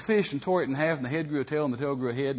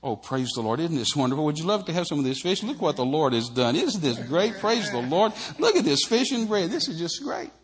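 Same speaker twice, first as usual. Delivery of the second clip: gushing Andrew; 4 dB louder than usual. Retold or imitated. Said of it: "Andrew would have said".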